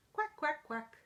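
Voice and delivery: high, short quacks; happy duckling quack. Acted. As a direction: quack lightly like a happy little duck. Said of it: "When I'm feeling happy, I say".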